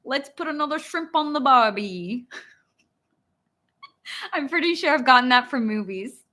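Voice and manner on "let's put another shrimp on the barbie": amateur Aussie imitation; attempted Australian accent. Shown as a demonstration. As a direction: play at being Australian, movie-style. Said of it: "And then Australian".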